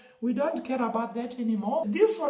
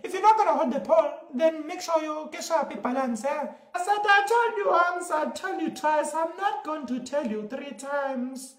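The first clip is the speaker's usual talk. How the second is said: put-on accent; 4 dB louder than usual. Comic performs accented character bit.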